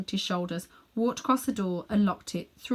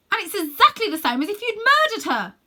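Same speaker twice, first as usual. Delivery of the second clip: put-on high, loud furious boy; indignant boy shouting; angry accusation; 12 semitones higher, 7 dB louder than usual. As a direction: hurl the accusation. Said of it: "shouted Diggory".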